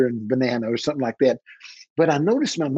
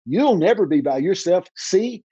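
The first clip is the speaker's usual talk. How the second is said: voice of the Lord; 6 semitones higher, slower than usual. Retold or imitated. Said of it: "and a voice said".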